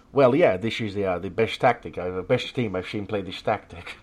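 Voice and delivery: mock the Dutch manager in a clumsy Dutch accent, half laughing; horrible Dutch accent. Podcaster imitating the Everton manager: bad Dutch accent. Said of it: "my horrible Dutch accent".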